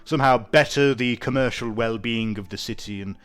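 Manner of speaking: lightly voiced haughty nobleman; a hint of an aloof aristocrat; pompous nobleman. GM voicing nobleman NPC.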